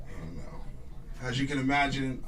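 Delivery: ordinary talk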